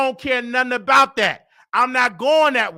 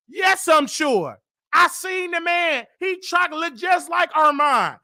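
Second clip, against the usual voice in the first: emphatic shout; 6 semitones higher, slower than usual. Real, not acted. Insisting loudly to Tasha.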